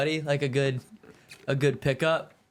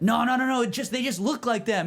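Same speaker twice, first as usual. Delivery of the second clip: mock girl denial; 9 semitones higher than usual. Girls denying being a band.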